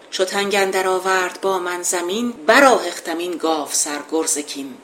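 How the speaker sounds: measured epic verse reading; poem recitation. Acted. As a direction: declaim the couplet like an old epic.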